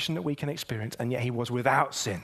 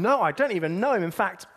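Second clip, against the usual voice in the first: louder, insistent denial; heated denial; 4 semitones higher, 5 dB louder than usual. Retold or imitated. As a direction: brush him off hotly. Peter denies Jesus, overheard.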